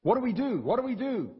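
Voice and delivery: rising panic, pitch climbing high on the repeated question; dismayed crowd. Retold or imitated. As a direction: voice the crowd realizing their guilt, alarmed. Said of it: "They're like".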